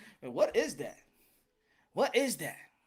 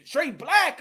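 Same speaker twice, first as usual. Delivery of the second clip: mildly surprised quote; 5 semitones higher, slower than usual. Retold or imitated. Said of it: "like, surprised".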